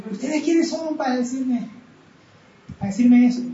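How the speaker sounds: reproche indignado, subiendo al final; hermano ofendido. Retold or imitated. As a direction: pregunta ofendida y a la defensiva, más fuerte al cerrar. Hermano se enoja al ser confrontado. (el hermano ofendido reclama con enojo)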